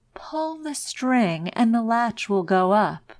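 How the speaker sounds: wolf voice made gentle; softened wolf voice. Acted. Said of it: "softened his voice as much as he could".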